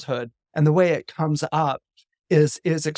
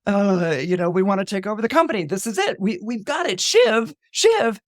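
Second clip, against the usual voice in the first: urging brothers; 5 semitones higher than usual. Retold or imitated. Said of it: "Kendall and Roman are like".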